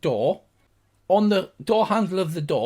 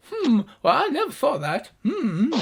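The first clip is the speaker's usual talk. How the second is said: high, pondering gnome voice; a lightly high voice, thinking it over; musing gnomes; 9 semitones higher than usual. Acted. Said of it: "They look at each other and go".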